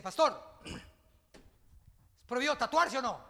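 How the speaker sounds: lightly voiced young man, slow and questioning; a hint of a curious young man; young man asking. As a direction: mimic the earnest young man's question. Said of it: "con un muchacho que me dice".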